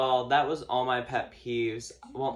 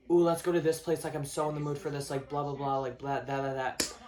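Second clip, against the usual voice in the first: mimicked eagerness; 3 semitones higher than usual. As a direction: gush like an eager friend, rattling into blah-blahs. Mimics eager friend proposing outing.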